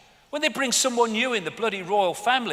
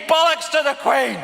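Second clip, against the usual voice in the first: defiant shout; 8 semitones higher, 6 dB louder than usual. Real, not acted. Shouting own rude version.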